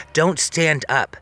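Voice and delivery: slow, careful warning; each word drawn out gently. Retold or imitated. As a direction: spell it out slowly so he stays put. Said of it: "I said to him".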